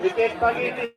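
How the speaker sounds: excited live play-by-play; telugu cricket commentary. Real, not acted. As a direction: call the wicket as it falls.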